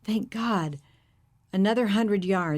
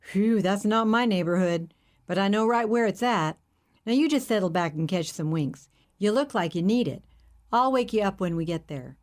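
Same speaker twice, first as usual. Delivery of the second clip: hippie driver. Acted. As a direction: play the friendly hippie, curious.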